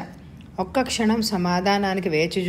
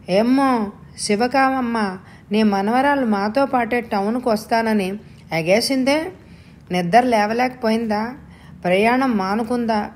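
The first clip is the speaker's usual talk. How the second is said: village neighbour calling; 4 semitones higher than usual. Acted. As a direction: hail the old woman from the lane. Neighbour calls to grandmother.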